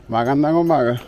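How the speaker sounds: friendly Tagalog hello called out; cheerful greeting. Real, not acted. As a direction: greet the locals warmly from afar.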